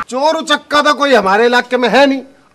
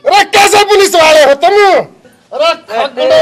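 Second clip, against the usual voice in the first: scolding yell; 3 semitones higher, 4 dB louder than usual. Acted. Scolding constables.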